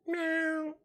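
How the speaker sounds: high-pitched little kitty mew; cute cat meow. Pretend. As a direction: mimic a cute begging cat. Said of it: "Would I make a cute little cat?".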